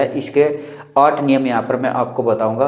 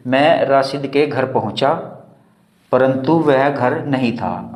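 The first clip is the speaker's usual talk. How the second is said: slow example reading; slower than usual. Shown as a demonstration. Teacher reading example sentence slowly.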